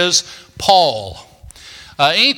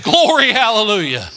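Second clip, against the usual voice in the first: mock joyful shout; 2 semitones higher than usual. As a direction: shout it like a freed kid at church. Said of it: "No, I didn't say that".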